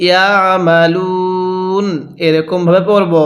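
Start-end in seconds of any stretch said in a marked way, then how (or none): 0.1-1.9 Quran recitation. Shown as a demonstration. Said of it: "কিভাবে শিখব?".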